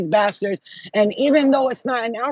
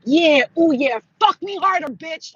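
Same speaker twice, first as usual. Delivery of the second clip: high-pitched mock-lustful egging on; loud, high start, dropping on the last word; goading taunt; 7 semitones higher, 4 dB louder, slower than usual. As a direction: tease your attacker, pitched right up. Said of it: "like that".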